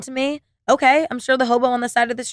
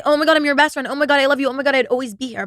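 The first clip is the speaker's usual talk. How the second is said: gushing friend; 5 semitones higher, faster than usual. Acted. People promising best friendship to you, gushing. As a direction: imitate someone's effusive promises of friendship. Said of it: "Like, people can say".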